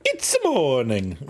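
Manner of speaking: drawn-out hammed-up morning announcement; mock wake-up call. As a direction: stretch it out slowly as a silly wake-up call. Mock wake-up call, then apologizes.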